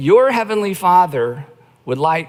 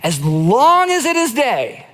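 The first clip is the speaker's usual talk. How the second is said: Jesus speaking; 3 semitones higher than usual. Retold or imitated. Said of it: "he says".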